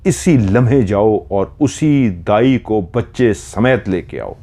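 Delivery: slow, weighty order, dropping at the end; measured, emphatic elder's command; stern command. Acted. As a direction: send the men off with deliberate authority. Elder orders his men out.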